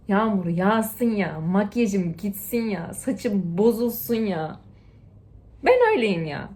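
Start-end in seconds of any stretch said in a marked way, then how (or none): 0.1-4.6 slow, drawn-out carefree lines; slow, relaxed, happy-go-lucky; carefree quote. Pretend. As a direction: stretch each phrase, letting it go. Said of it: "diyeceksiniz ki".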